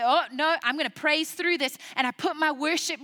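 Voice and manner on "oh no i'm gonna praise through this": determined cry. Retold or imitated. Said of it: "and I say".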